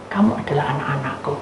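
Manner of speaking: hushed, tender whisper as God. Acted. God whispering to his children, tender. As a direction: breathe it softly to his children.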